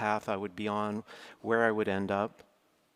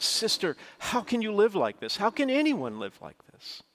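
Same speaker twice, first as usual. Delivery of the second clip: higher, louder retold indignation; protest, pitched up and louder; outraged protest; 10 semitones higher, 3 dB louder than usual. Outraged at her shabby apartment.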